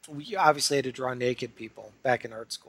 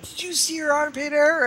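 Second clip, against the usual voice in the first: gossiping guys; 14 semitones higher than usual. Retold or imitated. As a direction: imitate guys gossiping on break. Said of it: "all the guys were like".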